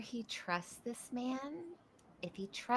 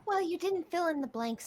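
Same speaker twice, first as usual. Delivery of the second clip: sassy retort; 8 semitones higher, 6 dB louder than usual. Acted.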